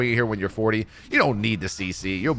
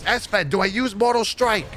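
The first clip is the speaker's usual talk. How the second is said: Chinglish, yelling; 10 semitones higher than usual. Retold or imitated. Teammate yelling to the other side, high mock panic. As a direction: mimic a flustered teammate calling out, pitched way up. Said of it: "He's like yelling".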